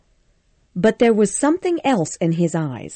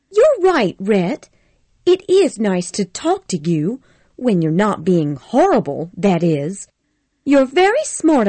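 put-on higher, lightly sweet young woman; sweet Scarlett; 3 semitones higher, 3 dB louder than usual. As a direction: Scarlett softening, sweet to Rhett. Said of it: "smiling sweetly at him".

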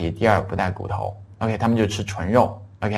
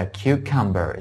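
slow model word; much slower than usual. Shown as a demonstration. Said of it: "叫cucumber".

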